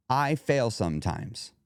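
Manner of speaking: slow admission with wiggle room. Shown as a demonstration. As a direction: say it slowly, easing off the verdict. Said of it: "Do you feel the difference?".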